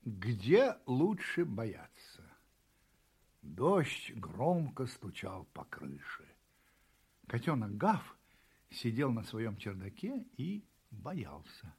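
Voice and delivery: slow, low narration of a rainy night; hushed storytelling. A narrator's reading. Storyteller sets a fearful rainy scene.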